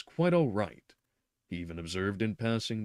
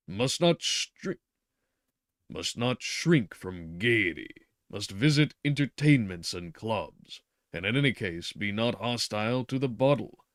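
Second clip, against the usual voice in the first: insistent doctor; 4 dB louder than usual. Acted. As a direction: press each instruction home. Doctor prescribing gaiety.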